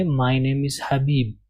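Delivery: "My name is Habib" read slowly with short "my"; careful model pronunciation; correct slow reading. Shown as a demonstration. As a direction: model the sentence slowly for the class. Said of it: "اور ہم اس کو پڑھیں گے".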